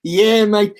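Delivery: put-on Australian twang; Aussie accent. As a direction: echo it in mock Australian. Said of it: "we used to do the Aussie one".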